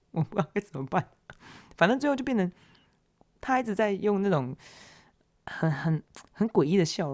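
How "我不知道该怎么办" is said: laughing through the words; embarrassed storyteller laughing at her own mess; laughing helplessly. Real, not acted. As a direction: giggle while admitting defeat.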